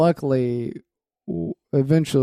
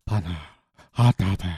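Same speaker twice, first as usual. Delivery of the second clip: mock French accent; 8 semitones lower than usual. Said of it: "is that your French accent".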